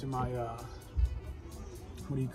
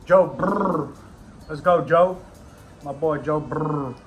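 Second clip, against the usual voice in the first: excited hype; 7 dB louder, slower than usual. Real, not acted. Hyping up Joe Burrow.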